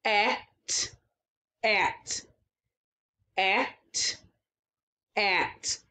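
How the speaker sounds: repeating at, softening; blending sounds. Shown as a demonstration. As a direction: say at softly each time. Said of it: "let's try this one again".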